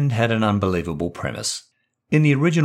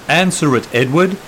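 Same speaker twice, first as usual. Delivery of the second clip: sharp angry outburst, higher and louder; exploding; 7 semitones higher, 6 dB louder than usual. Acted. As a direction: explode at her husband to answer the phone. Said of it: "she explodes".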